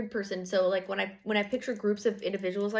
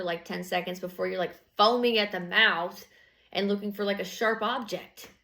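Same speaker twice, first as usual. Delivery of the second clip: exasperated rant. Retold or imitated. Quoted rant at jealous partner.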